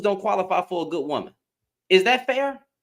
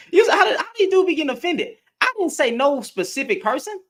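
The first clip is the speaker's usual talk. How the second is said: high, loud, laughing through the words; can't hold back the laugh at him; real amused laugh; 8 semitones higher, 3 dB louder than usual. Real, not acted. Laughs at the offended listener.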